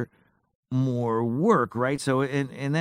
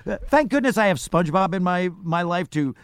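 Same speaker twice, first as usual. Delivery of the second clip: cartoon voice; 3 semitones higher than usual. Speaking in character voice.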